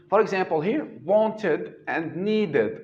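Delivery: wanted and needed said slowly, ending "-ed" as "id"; clear id ending. Shown as a demonstration. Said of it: "we pronounce them id".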